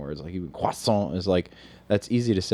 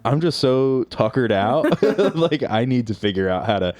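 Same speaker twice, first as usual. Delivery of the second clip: tired emperor; 3 semitones higher, 5 dB louder than usual. Retold or imitated. Emperor of Japan voiced, tired.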